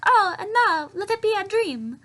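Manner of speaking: high, loud hammed-up lament; mock dismay. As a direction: cry out in exaggerated, put-on dismay. Retelling character waking in alarm.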